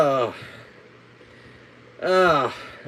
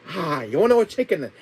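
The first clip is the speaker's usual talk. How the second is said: put-on Chinese accent; 4 semitones higher, 3 dB louder than usual. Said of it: "do a Chinese accent".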